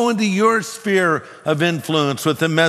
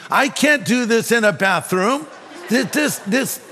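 higher-pitched, stammering inner objection; flustered protest; 6 semitones higher than usual. Retold or imitated. Preacher recalls balking at sharing faith in a bathroom, flustered. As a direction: balk at it, tripping over the words.

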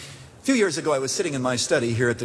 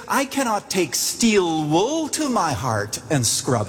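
higher, slow voicing of the old lady; old woman's slow plea; 5 semitones higher, slower than usual. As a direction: lift the pitch and linger, like her slow heartfelt words. Woman quoted, slowly.

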